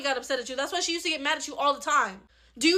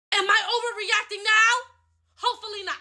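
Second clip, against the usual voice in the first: sarcastic; 8 semitones higher than usual. Acted. Mocking the sibling.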